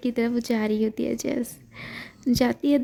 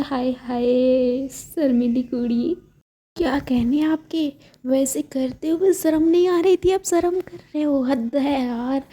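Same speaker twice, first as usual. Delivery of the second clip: playful teasing. Acted. Anna teasing the shy, blushing Jennifer, playfully. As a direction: tease her like a nosy friend.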